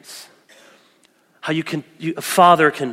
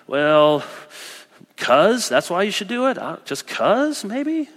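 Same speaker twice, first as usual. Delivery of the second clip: unsure shrug; 4 semitones higher, slower than usual. Retold or imitated. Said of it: "all I can think of is just".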